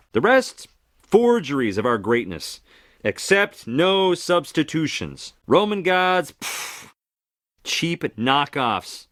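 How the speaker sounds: proud, scornful showman; mock sneer at rivals; boastful god. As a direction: sell your own greatness. Hermes boasting to audience.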